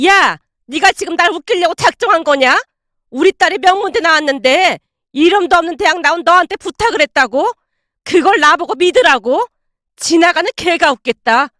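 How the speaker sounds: mock her openly; scornful mockery. Mother-in-law ridiculing daughter-in-law, sneering.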